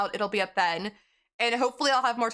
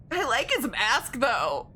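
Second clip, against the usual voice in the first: talking through hiccups; hiccupping between words; slower than usual. Real, not acted. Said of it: "I got the hiccups".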